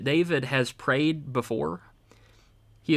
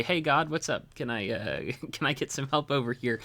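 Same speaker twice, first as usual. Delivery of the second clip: casual prayer; 4 dB quieter than usual. Retold or imitated. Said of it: "This is not casual".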